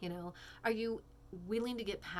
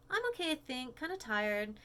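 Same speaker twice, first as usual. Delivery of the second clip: Jen voice; 5 semitones higher than usual. Acted. Reading Jen's text.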